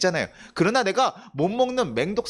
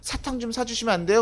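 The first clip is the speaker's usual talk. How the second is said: put-on higher-pitched pleading little kid; imitated childish pleading; coaxing child; 5 semitones higher than usual. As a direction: wheedle Dad like a child being cute. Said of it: "저희 조이가 막 애교를 부리면서".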